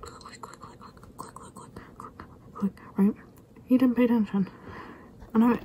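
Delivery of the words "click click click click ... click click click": whispered shutter clicks, much softer; tiny hushed clicking under the breath; imitated camera clicks. Sibling takes photos of the possum, imitated soft clicking.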